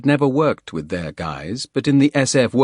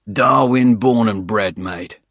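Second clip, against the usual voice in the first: rusty Aussie drawl with pride; proud Darwin bloke, rough voice; gruff Australian accent; 5 dB louder, slower than usual. Acted. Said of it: "rusty voice".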